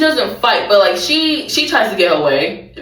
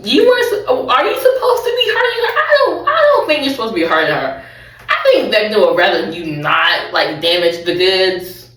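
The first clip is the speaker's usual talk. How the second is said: laughing mock protest. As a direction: laugh while scolding the monster. Own mock protest at the monster.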